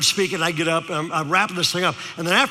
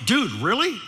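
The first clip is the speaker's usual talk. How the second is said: high, swooping mock Valley-dude question; Valley teenager; 5 semitones higher than usual. Speaker reacts to teen, high mock Valley lilt. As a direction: imitate an incredulous Valley kid, rising. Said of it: "decided to use his language".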